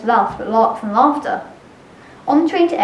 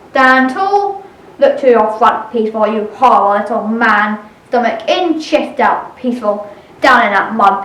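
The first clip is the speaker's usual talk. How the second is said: barking drill sergeant. Acted. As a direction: bellow at the recruit like a sergeant. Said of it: "named Sergeant Horrible Hanley".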